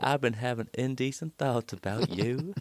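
lightly put-on Southern US drawl, lovesick boy wooing Mary Lou; a hint of a Southern US boy courting his sweetheart; southern US accent. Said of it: "as a southern U S A character".

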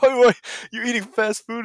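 high, loud mock scolding; mock yelling. Trainer scolding a client over fast food, mock yelling. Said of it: "he starts yelling at them".

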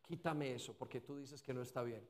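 low, hushed acted prayer; oración íntima. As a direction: murmur a private plea to God. Oración actuada al Espíritu Santo. (oración actuada, grave y muy suave)

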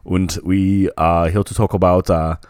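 put-on German accent. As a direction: play a German host welcoming listeners. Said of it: "There's a couple of German guys".

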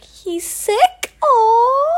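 high, pitying concern; worried Lena. Retold or imitated. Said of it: "Lena's like".

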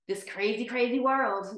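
laughing through the last words. Acted. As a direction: break into a laugh mid-line. Poem climax, laughing.

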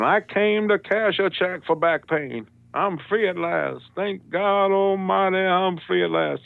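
high, drawn-out orator's cry; slow, soaring civil-rights oratory, played for a joke; MLK speech parody. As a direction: stretch every vowel like a rallying preacher. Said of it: "I start doing".

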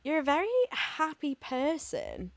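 confused. Retold or imitated. Retelling a remark from someone this week, mock confused. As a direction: say it as a bemused observation. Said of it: "in a very confused way".

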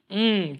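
drawn-out groan; demonstrated groan. Shown as a demonstration. Preacher showing wordless prayer, drawn-out groan. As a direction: let out a long groan from the belly. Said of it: "just a groan".

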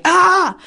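put-on a high toddler-like shriek of frustration; retold frustrated scream. Wife to husband, imitating her old frustrated shriek. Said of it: "I would scream out".

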